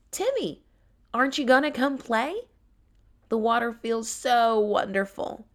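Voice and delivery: high, bright call across the pond; young tiger Tara calling. Acted. Tara calling Timmy from the pond, high and eager.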